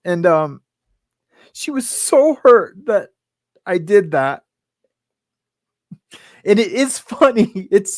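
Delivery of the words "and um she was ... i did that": real choked-up confession; fighting back real tears while confessing; on the verge of crying. Real, not acted. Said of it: "I'm gonna start crying about it".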